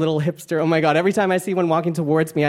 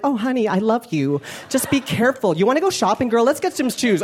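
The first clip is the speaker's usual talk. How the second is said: a lightly higher, sweet mom voice; mom's voice; 4 semitones higher than usual. Retold or imitated. Son imitating his accepting mom, sweet and light. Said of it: "she was like".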